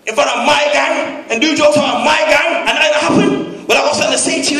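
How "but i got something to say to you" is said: raised, menacing roadman voice; angry gangster shout. Retold or imitated. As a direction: threaten him like a London gangster. Gangster threatening, louder higher.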